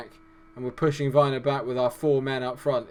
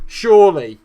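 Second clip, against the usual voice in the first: loud yell; 6 semitones higher, 14 dB louder than usual. Real, not acted. Foul in the box.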